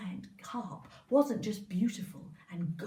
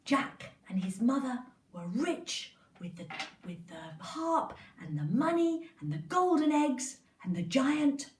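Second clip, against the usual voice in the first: plain reading voice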